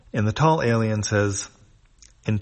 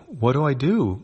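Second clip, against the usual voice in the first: higher, more frantic repeat; panicked; 6 semitones higher, 4 dB louder than usual. A narrator's reading. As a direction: pitch up with rising panic. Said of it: "She looks worried".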